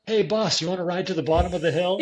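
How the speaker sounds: a light hint of a gruff worker; mine worker. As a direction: call out like a cheerful worker from a truck. Mine workers offer a ride.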